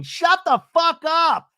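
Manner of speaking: high, drawn-out imitated shout. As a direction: yell it like her, loud and slow. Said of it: "we see Emily shouting at".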